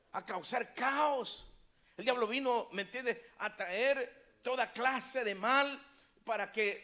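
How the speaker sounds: fervent preacher building emphasis; impassioned preaching. Acted. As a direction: press each phrase on the congregation.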